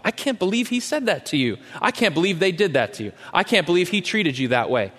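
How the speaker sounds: high, outraged disbelief; indignant sympathy. Retold or imitated. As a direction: egg on the grievance. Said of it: "You should be really ticked off about".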